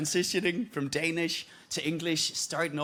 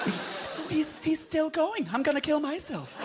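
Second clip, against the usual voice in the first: pained discomfort; 9 semitones higher, slower than usual. Acted. Acting a pained comedy audience.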